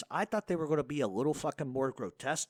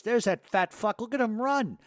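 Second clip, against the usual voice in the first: Dracula gleeful yell; 8 semitones higher, 6 dB louder than usual. Retold or imitated. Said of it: "my buddy Dracula goes".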